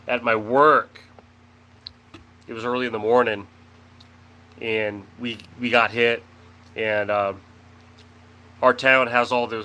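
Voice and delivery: talking around a cough drop; sucking a cough drop while talking; cough drop in mouth. Real, not acted. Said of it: "I have a cough drop".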